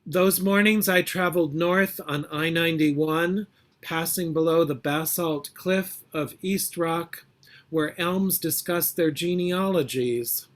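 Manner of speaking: measured, deliberate poetry reading; poem reading. Acted. Poet reading her poem to the congregation, measured and deliberate. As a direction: let each image land for the audience.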